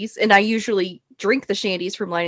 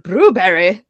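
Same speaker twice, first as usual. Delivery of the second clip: put-on Austrian accent; 5 dB louder, slower than usual. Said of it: "he was like".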